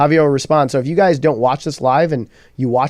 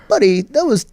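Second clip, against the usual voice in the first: put-on British accent; 8 semitones higher than usual. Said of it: "in his British accent".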